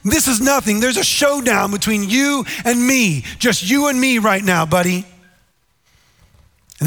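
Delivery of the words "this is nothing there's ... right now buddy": retold yell, pitched way up; mock yell at God. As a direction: imitate a man taunting God in a storm. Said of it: "he yells at God".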